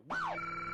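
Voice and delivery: high siren whoop; imitated police siren. Storyteller mimics police siren in the driveway, high whoop. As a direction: whoop like a squad car siren.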